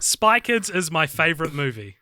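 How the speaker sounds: natural New Zealand accent; Kiwi accent. Shown as a demonstration. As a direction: model the line in an everyday Kiwi accent. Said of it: "in a Kiwi accent".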